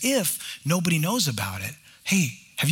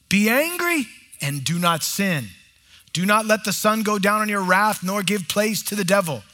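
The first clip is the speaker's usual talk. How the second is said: scripture reading. Real, not acted. Reads scripture slowly.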